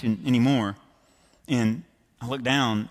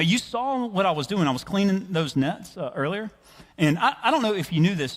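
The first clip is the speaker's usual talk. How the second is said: higher-pitched, mildly incredulous pleading; reasoning protest; 5 semitones higher than usual. Acted. Simon the fisherman arguing with Jesus, protesting. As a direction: argue your case to someone who outranks you. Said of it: "some reasonable arguments with Jesus".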